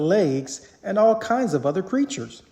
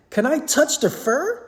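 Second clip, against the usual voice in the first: put-on little girl exclaiming; 9 semitones higher than usual. A narrator's reading. Little girl admiring costumes, excited child. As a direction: gush like an amazed little girl.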